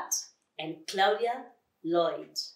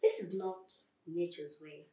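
softer, subdued lament; mildly downcast, said quietly; sad; 6 dB quieter than usual. Acted. Flea to a lion who does nothing, sad. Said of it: "said Flea sadly".

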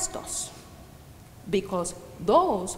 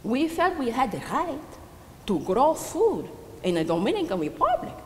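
higher, protesting voice; indignant self-defence; 4 semitones higher than usual. Acted. Old widow defending her starving family to a wary neighbour, indignant. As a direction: defend yourself with hurt insistence.

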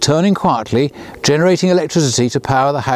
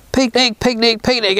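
excited shout; 9 semitones higher than usual. Acted. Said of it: "everyone shouted".

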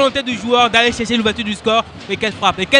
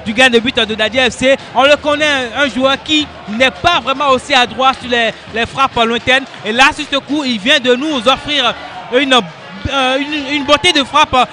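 excited sports commentary; 3 semitones higher, 4 dB louder than usual. Real, not acted. Co-commentator reacts to goal.

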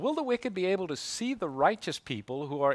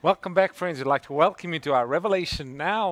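winded after running; out of breath; 4 dB louder than usual. Real, not acted. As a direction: talk while catching breath. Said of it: "so I'm trying to catch my breath here".

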